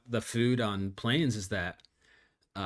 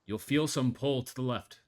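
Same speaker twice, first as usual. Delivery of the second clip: calm pilot reporting his own collapse; deadpan captain dying over intercom; pilot cockpit headset. Acted.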